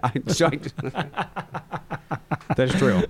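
laughing through the words; breaking up with laughter. Real, not acted. Laughs at joke.

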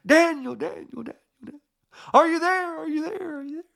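high-pitched call fading in echoes; mock echo of a high, distant shout; echoing yell. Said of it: "he yells down there".

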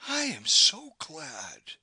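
slow, breathy relief; relieved sigh. A narrator's reading. Maude to Humphrey, sighing with relief. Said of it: "a sigh of relief".

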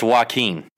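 "Joaquin" said wah-KEEN, stress on KEEN; "Joaquin" as wah-KEEN with a nasal ending; correct pronunciation. Shown as a demonstration. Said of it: "I believe it's pronounced".

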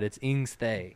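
"Ingsthe" said INGS-thay, firmly; correct Pig Latin. Shown as a demonstration. Insisting co-host was wrong, pronouncing "Ingsthe" as INGS-thay. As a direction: end "Ingsthe" on a whole th plus ay. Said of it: "No, you weren't right".

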